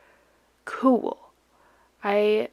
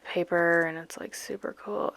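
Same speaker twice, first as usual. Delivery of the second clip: flat bored read. Shown as a demonstration. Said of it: "I can't just be like".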